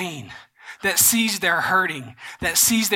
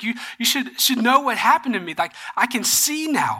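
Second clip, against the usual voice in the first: higher, eager retold voice; excited; 4 semitones higher than usual. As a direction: act out a man thrilled to be believed. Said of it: "He's excited".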